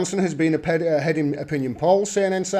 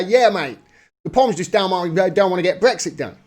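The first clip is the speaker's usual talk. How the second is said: badly faked Australian broadcaster; mock Australian newsreader, poorly imitated accent; terrible Australian accent. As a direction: put on a bad Aussie accent. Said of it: "that's a terrible Australian accent".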